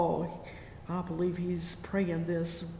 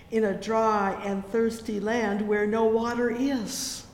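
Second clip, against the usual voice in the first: fervent scripture reading; 4 dB louder than usual. Acted. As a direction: call the verse out to the church. Reads psalm at full force.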